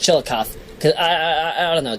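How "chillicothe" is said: Chillicothe said chill-uh-KOFF; ending as koff. Shown as a demonstration. Host guessing a town's name, Chillicothe as chill-uh-koff. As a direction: end Chillicothe in koff, three syllables. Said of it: "I hope it's pronounced".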